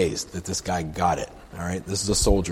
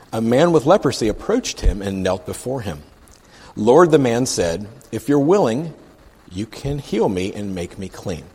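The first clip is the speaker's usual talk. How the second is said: emphatic read-aloud, key words leaned on; scripture reading; 4 dB louder than usual. Acted. Preacher reads the leper's plea to the congregation, scripture reading. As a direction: read the verse out deliberately.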